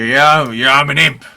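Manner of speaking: loud, high put-on imp shout; playing an imp. Player crouches on the board pretending to be an imp, loud imp impersonation. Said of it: "do your best to play as an imp".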